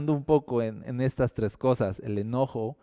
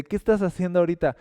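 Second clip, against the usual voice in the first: preguntar rápido y más alto, curioso; pregunta curiosa, rápida; 5 semitones higher, 5 dB louder, much faster than usual. Acted. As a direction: como un amigo que pregunta de pasada. Diálogo imaginado, pregunta. (pregunta rápida y animada)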